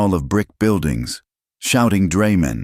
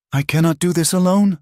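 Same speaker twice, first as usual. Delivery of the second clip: high, louder, desperate plea; sobbing plea; 13 semitones higher, 4 dB louder than usual. Acted. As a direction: plead as the tears come. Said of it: "she sobbed".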